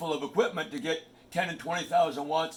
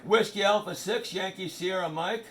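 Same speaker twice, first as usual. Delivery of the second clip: radio call sign; 2 semitones higher than usual. Shown as a demonstration. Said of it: "This is how it works".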